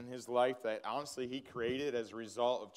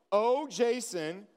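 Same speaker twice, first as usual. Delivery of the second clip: slow, raised proclamation of the name; preaching; 6 semitones higher, 4 dB louder, slower than usual. Shown as a demonstration. Pastor reading the verse with his own name, slow and fervent. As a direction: call the name out like scripture, slowly and higher. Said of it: "put your name in there".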